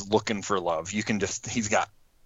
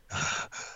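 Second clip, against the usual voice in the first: imitated raspy bull breath; 8 dB quieter than usual. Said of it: "big guttural raspy breaths".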